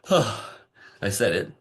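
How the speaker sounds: slow, exhaled relief; relieved sigh. Retold or imitated. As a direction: let the words out on a long relieved breath.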